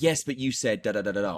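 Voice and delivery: a mildly pushy yes-but; lightly mock the wrong comeback; confrontational. Shown as a demonstration. Coach demos the wrong reply to an objection. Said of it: "the worst thing that you can do".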